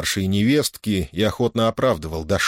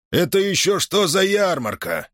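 merchant's demand; 9 semitones higher than usual. Acted. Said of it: "спросил купец".

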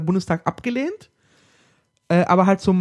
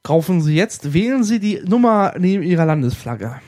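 put-on upbeat old TV sales pitch; chipper 1950s ad; 3 dB louder than usual. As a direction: sell it like a cheesy teleshopping host. Spoof ad after shopping talk. (fröhlicher Werbesprecher der Fünfziger)

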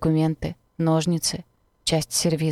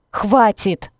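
sharp loud cry of stop; shout; 4 semitones higher, 7 dB louder than usual. Acted. Anna screaming at Kai to stop, loud shout. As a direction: yell it out to make him stop. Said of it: "заорала я".

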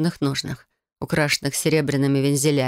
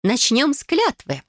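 higher, slow, eager proclamation; enthusiastic exclaim; 9 semitones higher, slower than usual. Acted. Cousin eagerly launching the oath plan, enthusiastic. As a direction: announce it with zeal. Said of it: "воодушевлённо воскликнула Фелиция".

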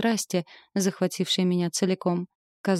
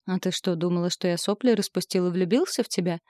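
malicious smirk. Acted. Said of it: "злобно усмехнулся".

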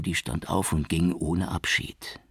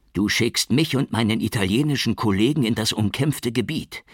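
higher, louder furious reproach; trembling anger; 5 semitones higher, 5 dB louder than usual. A narrator's reading. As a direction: hold the rage barely in check. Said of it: "sagte er vor Zorn bebend".

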